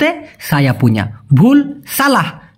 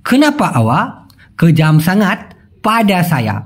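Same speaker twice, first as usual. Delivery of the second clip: slow model sentence; much slower than usual. Shown as a demonstration. Teacher models Malay sentence.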